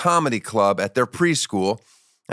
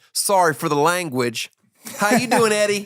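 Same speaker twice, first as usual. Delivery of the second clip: much higher, brighter show-host voice; high put-on voice; 8 semitones higher than usual. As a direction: pitch way up like a cheesy TV host. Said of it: "You sound a little different".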